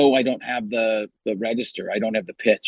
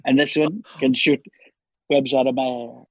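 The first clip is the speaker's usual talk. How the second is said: Donald Trump. Acted. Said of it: "back to Trump".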